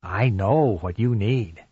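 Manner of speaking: slow, creepy phone stalker; drawn out to unsettle her; menacing caller. Acted.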